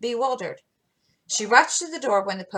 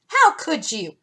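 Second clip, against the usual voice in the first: higher, louder, slow scolding; reproving; 8 semitones higher, 5 dB louder than usual. Acted. Meg chiding Jo for running, reproving and slow. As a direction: chide like a proper elder sister. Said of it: "said Meg reprovingly".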